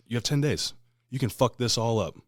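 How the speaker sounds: acted stern challenge; retold ultimatum.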